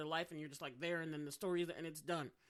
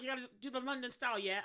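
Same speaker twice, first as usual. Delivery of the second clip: put-on London accent; 5 semitones higher, faster than usual. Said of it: "they're like".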